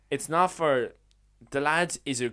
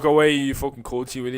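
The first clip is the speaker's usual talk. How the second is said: louder mock telling-off; retold slagging; 6 dB louder than usual. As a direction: imitate family sending you packing. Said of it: "it's like".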